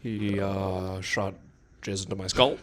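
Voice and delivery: hesitant, broken-up impression; Obama. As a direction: pause after each "uh" before going on. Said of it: "Now I talk like Obama".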